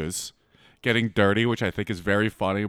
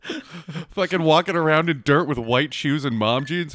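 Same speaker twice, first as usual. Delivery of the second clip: escalating comedy rant; 4 semitones higher than usual. Real, not acted. Mocking her photo, laughing.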